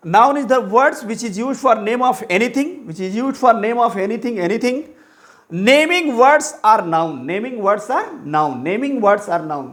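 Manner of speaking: slow, word-by-word definition for notes; slow dictation. Acted. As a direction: dictate each word so students can write it down.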